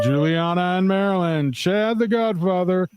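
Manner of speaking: big, slow radio show intro with long-stretched words; radio announcer. Pretend. Co-host opens Monday Night Live and introduces the guest, radio announcer voice. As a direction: draw out each phrase like a ring announcer, pitch swooping up. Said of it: "you got that radio voice".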